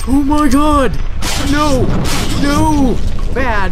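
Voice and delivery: high frightened screaming; terrified scream. Real, not acted. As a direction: shriek in real panic. Jump scare, screaming in fright.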